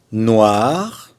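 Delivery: "Noir" with the French r sounded at the end; rising "Noir", r clearly heard; final R pronounced. Shown as a demonstration. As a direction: stretch "Noir" and finish on the r. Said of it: "Là, on prononce le R".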